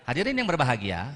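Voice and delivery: MC greeting from the chest, not the diaphragm. Shown as a demonstration. Speaker demonstrates the wrong MC chest voice. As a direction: demo of the wrong chest-voice MC opening. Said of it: "M C profesional tapi masih pakai di suara dada".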